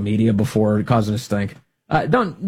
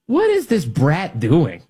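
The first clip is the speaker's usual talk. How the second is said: incredulous; slower than usual. Retold or imitated. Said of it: "I'm looking at this going".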